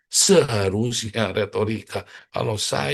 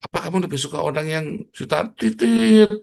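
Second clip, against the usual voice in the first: raised voice; 7 semitones higher, 6 dB louder than usual. Acted. Preacher's provocative shouted question.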